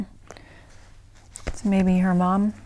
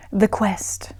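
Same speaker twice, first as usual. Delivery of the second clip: put-on London RP accent. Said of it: "put on my, my best London received pronunciation accent".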